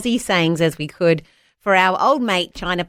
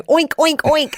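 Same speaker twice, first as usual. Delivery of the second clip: put-on higher childlike oink oink oink; little girl's oinks; 8 semitones higher, slower than usual. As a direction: imitate a small girl getting it wrong. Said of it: "she would go".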